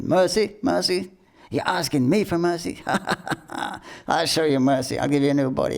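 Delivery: high, scornful taunt with a laugh; mocking deity. Angry deity mocks the begging man, high scornful taunt. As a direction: sneer at the plea, laughing.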